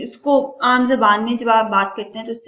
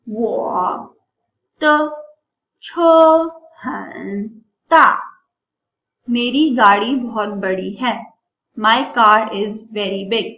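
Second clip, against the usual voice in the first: slow model sentence; 4 dB louder, much slower than usual. Shown as a demonstration. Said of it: "अभी एक sentence हम देखते हैं".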